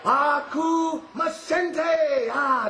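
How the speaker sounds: very slow, stretched mock war cry; mildly shouted imitation battle cry; retold battle cry. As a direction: re-enact the scream with long held syllables. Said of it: "he was screaming to you".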